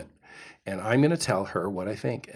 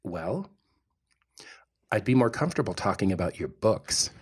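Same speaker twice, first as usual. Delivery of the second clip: cool brush-off; 3 semitones lower, 5 dB quieter than usual. Retold or imitated. Husband quoting his date's rejection, soft and cool. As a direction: let him down gently and coolly. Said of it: "Oh, I didn't say it like that".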